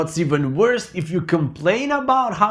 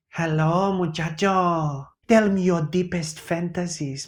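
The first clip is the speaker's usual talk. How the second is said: sultry caller; 4 dB quieter than usual. Acted. Host mock-seducing someone on the phone call. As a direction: tease like a sleazy hotline caller.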